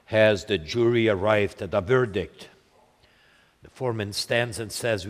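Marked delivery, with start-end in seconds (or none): 0.1-2.5 low, grave judge asking the jury; a hint of a solemn judge in court. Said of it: "in a grave voice and attitude".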